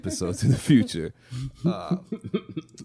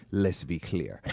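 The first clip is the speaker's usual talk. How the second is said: put-on accent of a famous singer; 5 semitones lower, 8 dB quieter, slower than usual. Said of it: "the accent is the same".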